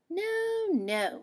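firm motherly no, no; mother rabbit shutting down the idea; mother says no. Acted.

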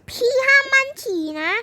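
put-on high, loud child voice scolding; bossy little sister. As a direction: play the little sister telling her off. Younger sister scolding her sibling. (น้องสาวดุพี่เสียงแหลมดัง)

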